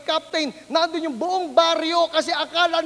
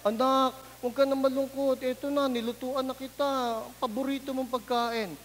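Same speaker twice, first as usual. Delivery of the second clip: tender mother; 6 dB quieter than usual. Retold or imitated. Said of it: "yung nanay mo".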